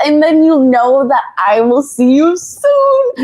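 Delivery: high, tearful, halting voice, real tears; crying while reading. Real, not acted. Host tells viewers she is really crying while reading the mom's words. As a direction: let the tears break through the words. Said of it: "she's actually crying".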